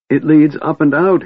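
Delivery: a kender shouting his discovery to Tika; jubilant shout. A narrator's reading. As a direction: shout the good news. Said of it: "he shouted jubilantly".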